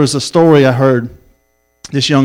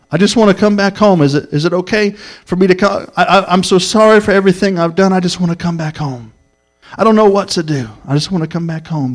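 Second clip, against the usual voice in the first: higher-pitched mock pleading, dropping on each plea for home; imitated tearful pleading; 4 semitones higher than usual. Young man pleads to the preacher to come home, mildly tearful pleading. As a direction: voice a young man begging, tears only hinted. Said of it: "With tears in his eyes".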